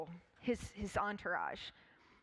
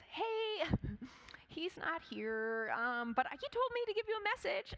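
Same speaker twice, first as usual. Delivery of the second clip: high, chirpy servant voice; servant's voice; 7 semitones higher than usual. Acted. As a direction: play the servant answering the door. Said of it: "Elisha's servant walks down and says".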